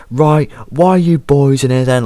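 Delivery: high, mock stern teacher; mock teacher shout. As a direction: play the teacher turning sharp. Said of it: "he starts shouting".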